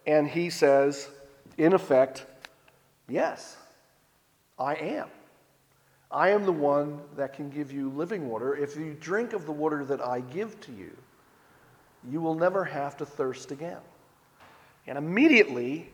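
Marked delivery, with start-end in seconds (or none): 3.1-13.8 softer, quiet and steady; calm assurance. Retold or imitated. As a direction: answer her gently, with certainty. Jesus answers her calmly.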